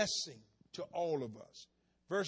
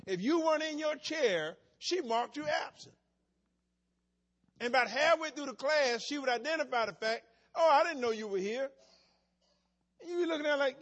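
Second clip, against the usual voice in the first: loud, high-pitched sermon delivery; raised preaching; 6 semitones higher, 8 dB louder than usual. Acted. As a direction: keep preaching, loud and lifted.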